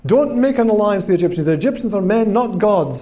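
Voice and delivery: mild mock scream of warning. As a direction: plead insistently with the king. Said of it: "screaming at them".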